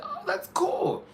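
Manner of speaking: whispered aside. Retold or imitated. Retold reaction.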